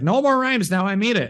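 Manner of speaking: high, sharp, fed-up shout; exasperated shout. Retold or imitated. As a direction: yell it like you've had enough. Exasperated character demands stop.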